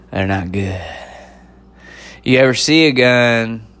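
put-on Southern old man voice. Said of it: "old man Southern voice and accent".

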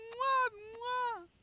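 loud, high smacking kisses; noisy kissing sounds. Acted. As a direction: smother him in kisses. Kissing his friend.

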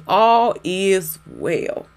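slow, drawn-out declaration. Shown as a demonstration. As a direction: declare it slowly and firmly. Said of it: "I just want you to say".

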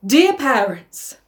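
slow, emphatic address; solemn declaration. Acted. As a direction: announce it formally, drawing it out. Reading the sister's solemn speech.

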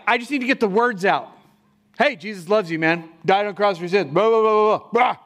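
hurried, dismissive brush-off with a blah-blah at the end; mock careless rattle. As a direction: rattle it off like you don't care. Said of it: "are like".

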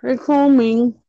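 talking while eating; words round a bite of food; mouth full. Real, not acted. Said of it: "I'm eating".

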